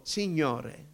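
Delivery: "Signore" said slowly and left hanging; tentative one-word prayer; halting prayer attempt. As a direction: start praying, then stall. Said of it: "e mi fermavo".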